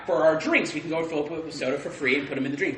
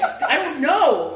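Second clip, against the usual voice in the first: mock confused reply; 9 semitones higher, 7 dB louder, much slower than usual. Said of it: "I'm like".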